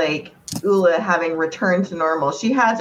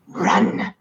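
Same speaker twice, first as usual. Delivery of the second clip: drawn-out growl of a single word; growled warning; 2 semitones higher than usual. Acted. Ula warns the crowd off, growling. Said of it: "just kind of growls and she's like".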